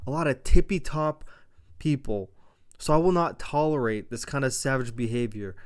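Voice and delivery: firm warning with loud bursts on key words; Nick Aldis asserting authority. Retold or imitated. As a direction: lay down the law, mildly acted. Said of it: "actually asserting authority".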